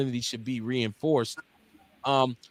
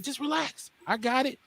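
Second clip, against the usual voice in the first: soft, high-pitched imitated reassurance; quietly voiced "I've got this"; calming reassurance; 8 semitones higher, 7 dB quieter than usual. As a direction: hush someone who is frustrated. Imitates father calming frustrated mother.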